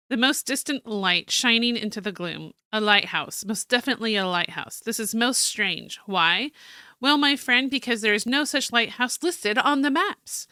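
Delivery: theatrical journal read-aloud; story narration. Acted. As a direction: read it out like a dramatic diary. Reads journal aloud as character.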